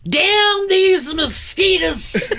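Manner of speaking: put-on high, slow overblown southern accent; hammy southern accent. Mocking stage actor in a hammy southern accent. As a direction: stretch it out like a bad southern actor. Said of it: "southern accent that no one has".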